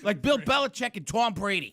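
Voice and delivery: put-on Boston accent; name-drop in comic Boston-speak. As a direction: lay on the Boston vowels. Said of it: "that's Boston".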